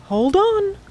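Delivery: high alarmed cry; urgent call. Acted. Curly calling to the others as the raft bumps, alarmed. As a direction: call out to brace them.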